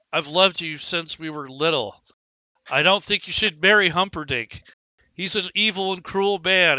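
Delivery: a dwarf baring his heart; earnest plea. Acted. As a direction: Balin begging the bride, earnest and loud. Balin confesses love.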